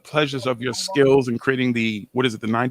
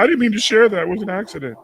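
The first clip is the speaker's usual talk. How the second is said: mimicking her; 6 semitones higher than usual. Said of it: "she's gonna be like".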